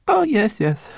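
high, wailing little voice; loud sobbing. A narrator's reading. Homunculus answering his young master, sobbing loudly. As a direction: wail it through tears. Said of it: "the homunculus sobbed even louder".

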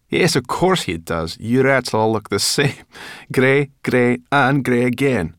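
high, loud creature jeer; scornful high-voiced brownie; Sorrel, mocking. A narrator's reading. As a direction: tease loudly, stretching the greys.

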